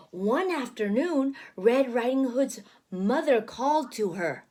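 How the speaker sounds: put-on gentle read-aloud pace for a child; storybook narration. Parent reading picture book aloud.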